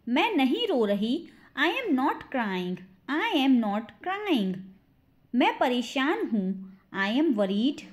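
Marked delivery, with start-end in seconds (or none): 3.1-4.5 slow, spaced-out sentence; slow model repeat. Shown as a demonstration. Teacher demonstrates the sentence for learners, slowly. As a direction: give each word time.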